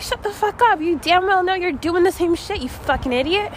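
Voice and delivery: high, sharp retort to a friend; aggressive snap. Retold or imitated. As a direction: bite her head off, half in jest. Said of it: "Why was that so aggressive?".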